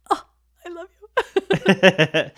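slow, drawn-out laughing swoon. Retold or imitated. A reader swooning over Darcy, slow and laughing. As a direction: melt into a dreamy "I love you" with a laugh. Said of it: "and it's like".

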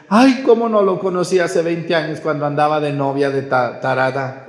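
lightly voiced lady sighing ay; a hint of a wistful older woman; imitating a lady. A lady tells the priest she wishes she'd met him sooner, lightly imitated. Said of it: "me dijo una señora el otro día".

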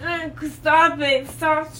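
being shaken. Real, not acted. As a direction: voice jolted by shaking. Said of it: "Stop shaking me".

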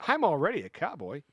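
lightly voiced real cowboy. Player trying out the cowboy's lines, cowboy voice. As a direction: talk like a seasoned cowhand. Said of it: "That's a good voice".

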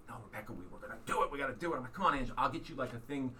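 mock-urgent coaxing of reluctant family; retold pleading. Dad urging his crying son on at the park, retold pleading.

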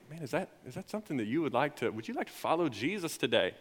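soft, tentative retold question; quietly asking, with a restart; gentle invitation. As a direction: offer it softly, feeling your way.

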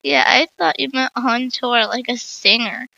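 reads through a light laugh; a chuckling tease; mild mock laughter. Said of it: "Charlie said laughing".

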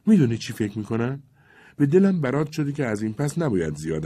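a hint of a troubled young woman; young girl worried. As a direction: confide your worry gently. Hanna speaks to Levko.

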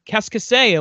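English speaker's clumsy French; fumbling tourist French; foreign accent in French. Retold or imitated. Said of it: "I'm gonna be like".

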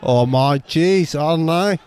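put-on Australian accent. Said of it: "My Australian guy's".

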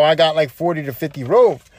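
low, easygoing retold answer; retold proud claim. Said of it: "he was proud of his accomplishment".

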